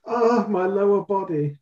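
high-pitched comic German accent. Shown as a demonstration. Co-host playing the patient with the hurt ankle, German accent. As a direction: groan it in a mock German accent. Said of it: "said that in a German way".

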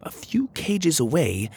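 storybook narrator building to a reveal; story narration. A narrator's reading. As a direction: let the discovery unfold in short phrases.

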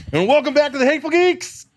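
high, hyped-up show welcome; excited. Real, not acted. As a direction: burst in like an excited host. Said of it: "He's really excited".

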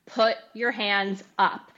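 slow, word-by-word retold command; firm order. Husband ordering his crying wife back up, firm retold command. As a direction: imitate a coach's order, evenly spaced.

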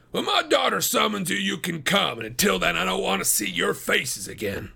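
angry father. Acted. Fuming farmer warning off his daughter's suitors, angry. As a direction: send them packing angrily.

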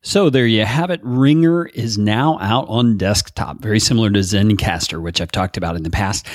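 recorded in a big echoey room. Real, not acted. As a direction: voice ringing off bare walls. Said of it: "apologize for the echoey sounding room quality".

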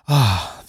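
acted-out sigh of relief; relieved sigh. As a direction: let out a long "ah" of relief. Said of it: "and that's a relief".

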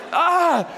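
high acted "ah" of exasperation; frustrated cry. Overwhelmed dad searching for diapers, acted frustrated cry. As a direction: let out a mock cry of despair.

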